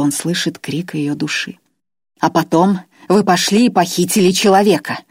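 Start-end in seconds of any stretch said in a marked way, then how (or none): 2.2-5.0 a sharp bark, a touch louder. Acted. The captive Grois barks an accusation at Irma. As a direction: snap it back at her. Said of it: "рявкнул он".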